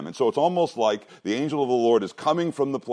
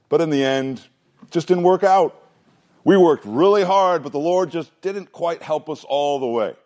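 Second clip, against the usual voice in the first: higher and louder, complaining Israelites making excuses; whiny excuses; 6 semitones higher, 3 dB louder than usual. Acted. Preacher voicing Israelites excusing their defeat, higher whining complaint. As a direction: whine it like someone blaming everyone but himself.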